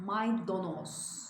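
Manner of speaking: "Maydanoz" slowly, with o in the middle; careful slow "Maydanoz", o in place of a; correct pronunciation. Shown as a demonstration. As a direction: draw out "Maydanoz" as may-do-noz. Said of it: "Maydanoz değil".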